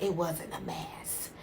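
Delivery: slow soft whisper; calm hushed reveal. Acted. Doctor calmly telling the fiance, whispered. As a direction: let it drop to a whisper. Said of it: "she says with a calm voice".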